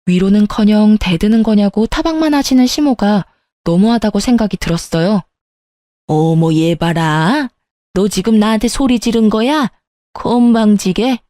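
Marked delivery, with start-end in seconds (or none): 6.1-11.2 scornful rebuke. Acted. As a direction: look down on her, spell it out. Mother-in-law rebukes her. (기막혀하며 깔보는 시어머니 말투)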